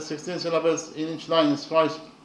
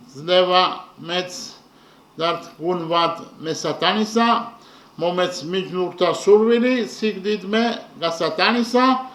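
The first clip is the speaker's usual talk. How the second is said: Georgian verse recital. Shown as a demonstration. Lecturer reciting the Georgian stanza to the class, measured. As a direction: recite the lines with care. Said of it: "I will read the stanza in the Georgian language".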